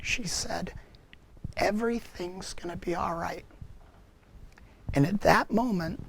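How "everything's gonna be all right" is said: soft, gentle, hushed reassurance; tender voice. Retold or imitated. Mary repeating her comfort to him, tender and soft. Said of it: "in the most tender voice".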